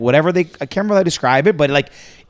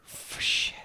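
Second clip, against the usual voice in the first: whispered curse to himself; muttered aside; 15 dB quieter than usual. Real, not acted. Can't remember the story properly, muttered aside. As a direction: swear under your breath, very softly. Loses the thread of his story.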